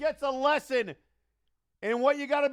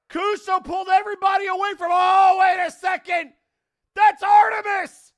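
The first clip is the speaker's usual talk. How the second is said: excited shouting; 3 semitones higher, 5 dB louder than usual. Real, not acted. Brawl breaks out ringside.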